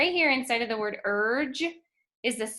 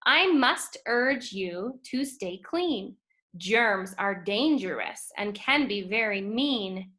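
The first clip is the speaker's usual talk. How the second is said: put-on slow, expressive read-aloud to children; poem reading. Teacher reading a poem to her students, expressive. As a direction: read the poem like a storybook for the class.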